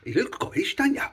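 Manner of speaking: high, loud, cooing tease; playful baby talk. Pretend. Vlogger admires child in kilt, high playful baby talk. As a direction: squeal it at a little one.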